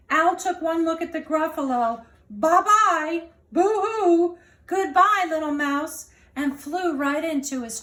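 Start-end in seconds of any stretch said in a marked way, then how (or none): 2.3-6.1 mock sobbing goodbye. Owl flees in fright.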